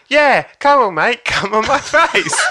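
high, loud hen-party heckle; egging him on. Retold or imitated. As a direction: shout slowly and eagerly at the comedian. Hen shouts out to comedian.

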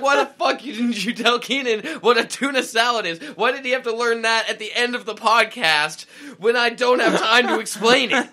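loud, laughing pretend rant at his family; mock yelling. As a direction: scold them, half-joking. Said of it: "go yell at people".

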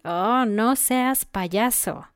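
slow drawn-out playful scold; teasing scold. Shown as a demonstration. Friend overreacting to a joke, playful scolding. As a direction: tell a friend off lightly, slowly. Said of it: "Entonces tú puedes decir".

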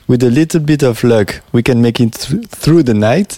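English lyric read with a heavy French accent. Shown as a demonstration. Radio host quoting the English lyric on air, in French-accented English. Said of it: "excusez-moi mon accent".

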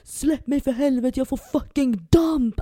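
re-enacted desperate scream; retold primal roar. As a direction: imitate a man roaring from the gut, stretching the words. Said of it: "skriker alltså så här, urgrundsvrål".

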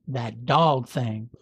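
slow Southern drawl on that dog thing; Southern accent. Retold or imitated. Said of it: "when you throw off a Southern accent".

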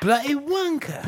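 mock British accent. Repeating the insult for laughs, mock British accent. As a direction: pitch up a put-on British accent.

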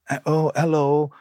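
mock limp, mopey hello; mimicking a sleepy Joe. Mocking Joe answering the phone mopey and weak. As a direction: act out a listless, moping answer. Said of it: "he's all like that".

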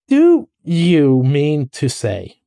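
very slow, emphatic disbelief; worked up, drawn-out question; excited. Acted. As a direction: stretch out each word, incredulous. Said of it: "cried the excited rat".

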